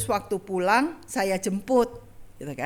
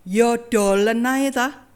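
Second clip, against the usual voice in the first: slow, louder Javanese retort as papa; papa's retort; 6 dB louder, slower than usual. Retold or imitated. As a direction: dismiss her like a fed-up husband. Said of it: "Terus jawab papa gini". (jawaban papa yang lambat dan keras)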